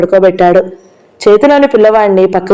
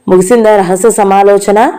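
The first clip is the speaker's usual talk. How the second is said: sarcastic. Acted. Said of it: "వెటకారంగా అడిగాడు రఘు".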